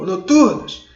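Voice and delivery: high, loud call. Shown as a demonstration. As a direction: call the word out like a name. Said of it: "Aí você gritou". (grito alto chamando)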